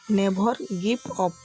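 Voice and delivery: very slow, each word spelled out; slow teaching demo. Shown as a demonstration. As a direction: say it slowly for learners to copy. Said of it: "कभी हार मत मानो". (धीमे-धीमे, साफ़ उच्चारण में)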